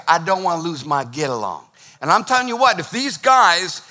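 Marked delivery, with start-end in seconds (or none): 0.1-1.6 lightly put-on Southern accent; a hint of Southern accent. Shown as a demonstration. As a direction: say it with a touch of Southern twang. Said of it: "say it with a Southern accent".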